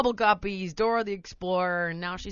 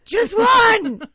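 much higher, louder, laughing; exasperated plea; 14 semitones higher, 14 dB louder than usual. Retold or imitated. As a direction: beg through a laugh, half joking. Exasperated parent fantasy.

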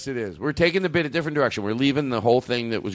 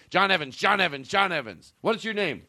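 mock rehearsing; 5 semitones higher than usual. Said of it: "Jake right now is going".

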